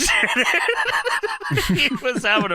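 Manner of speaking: words breaking into laughter; real laughing. Real, not acted. Telling co-host about the wrestler's antics, really laughing. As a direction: crack up mid-sentence and keep going.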